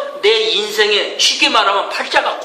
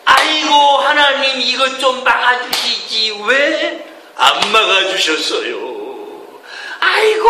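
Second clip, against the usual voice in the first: high, slow mock wail to God; hammed-up grumbling believer crying aigo; mock whining prayer; 4 semitones higher, slower than usual. Preacher mimics believers blaming God in prayer, mock wail. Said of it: "우리가 힘든 일을 만나면 이럽니다".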